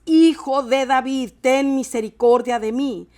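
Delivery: preacher voicing a forceful plea; clamoring. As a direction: cry out insistently over the crowd. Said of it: "Pero él clamaba mucho más".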